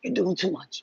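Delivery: soothing a noisy mind under your breath; hushing whisper. Pretend. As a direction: whisper it, shushing the thoughts. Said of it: "Basically telling the thoughts to".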